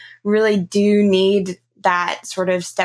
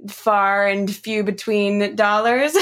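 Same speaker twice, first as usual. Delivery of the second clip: slow, amused words breaking into a laugh; slower than usual. Real, not acted. Host joking to guest about tight budgets, laughing. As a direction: chuckle through the words.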